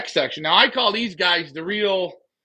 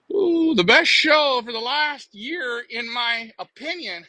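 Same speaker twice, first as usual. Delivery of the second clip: mock gushing fan; 5 semitones higher, 3 dB louder, slower than usual. Reading viewer comment in put-on voice.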